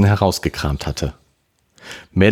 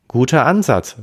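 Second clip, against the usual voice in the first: mildly praising, higher pitch; approving; 9 semitones higher, 4 dB louder than usual. A narrator's reading. Friend praises the brother's reasoning, mildly approving. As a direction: give brisk approval, pitched up. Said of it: "lobte Karen".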